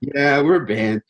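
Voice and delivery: slow, drawn-out sheepish admission; mildly sheepish, dragged out; embarrassed. Retold or imitated. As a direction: imitate a reluctant, embarrassed answer. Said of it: "hella embarrassed".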